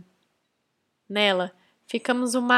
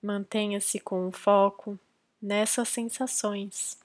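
calm, measured meditation guidance with long pauses; guided meditation. Real, not acted. Podcast host leading listeners into silent breath concentration, guided meditation. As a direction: guide them gently into focus, leaving space between phrases.

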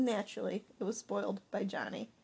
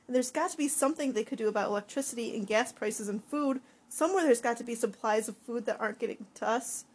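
angry rant; 3 semitones higher, 5 dB louder than usual. Acted. Dan's angry rant continues.

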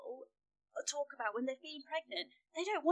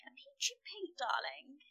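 lightly mimicked guest, pitched up; mimicking co-host; slower than usual. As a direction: echo your guest in a lightly teasing put-on voice. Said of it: "You're like".

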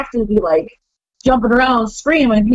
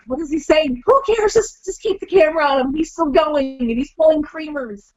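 higher, amused director voice; bemused excitement; 5 semitones higher than usual. Retold or imitated. Director watching Macho Man's rant, high and bemused. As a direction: sound baffled but thrilled by the rant.

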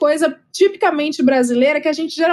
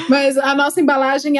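laughing into the next line; words broken by laughter. Real, not acted. Laughs after joke.

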